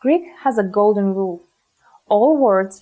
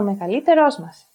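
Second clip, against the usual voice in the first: "μεγαλύτερός μας" stressed on λύ and ρός; "μας" unstressed after stressed ρός; double stress. Shown as a demonstration. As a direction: say "μεγαλύτερός μας" as one group, two stresses. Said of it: "can also cause enklisis".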